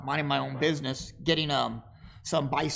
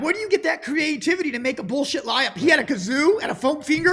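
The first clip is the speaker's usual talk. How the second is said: incredulous; 9 semitones higher, 4 dB louder than usual. Real, not acted. Incredulous retelling.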